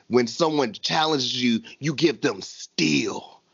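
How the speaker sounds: low, slow mock Nigerian-accented proverb; imitated Nigerian accent. Host quotes wrestler's grandfather saying, mock Nigerian accent. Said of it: "and then did it with the accent".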